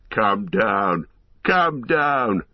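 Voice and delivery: mocking orc shouts from below; jeering orcs yell up at Aragorn to come down, jeering. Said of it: "they cried".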